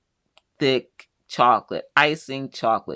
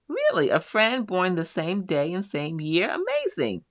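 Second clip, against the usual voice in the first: surprised delight; 5 semitones higher than usual. Real, not acted. Reacting to viewer's surprising news.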